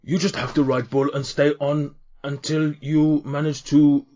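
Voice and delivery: lightly voiced cheery half-orc in broken Common; a hint of a jolly orc bull-handler. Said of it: "another half orc".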